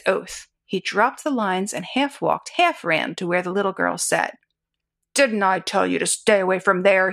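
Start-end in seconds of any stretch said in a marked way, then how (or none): 5.1-7.1 exploded. Acted. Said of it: "he exploded".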